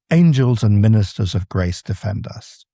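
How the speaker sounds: Angels hit hard on its first syllable; quoted line with a punched first syllable on Angels; stress on ANGELS. Shown as a demonstration. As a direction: open the line with a jolt on Angels. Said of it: "angels does not go dee-dum".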